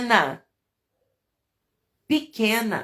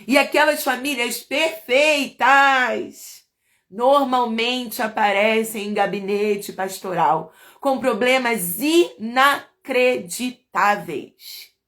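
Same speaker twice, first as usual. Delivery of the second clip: normal talking voice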